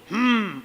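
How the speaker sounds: closed-mouth refusing hum; gumaman menolak. Retold or imitated. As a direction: hum back with lips sealed, imitating refusal. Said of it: "dia tutup mulutnya". (gumam dengan mulut terkatup)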